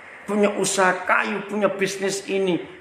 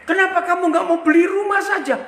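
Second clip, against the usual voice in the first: high, loud, fast blurt; 11 semitones higher, 5 dB louder, faster than usual. Retold or imitated. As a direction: let it burst out before you can stop it. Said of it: "dari mulut saya itu nyeletuk". (seruan spontan yang keras dan tinggi)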